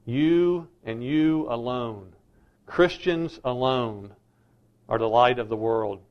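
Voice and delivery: You and you alone spaced out slowly; slow, deliberate you alone; slow emphatic. Shown as a demonstration. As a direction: lay down each word of you alone. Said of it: "That's an exclusive, exclusive claim".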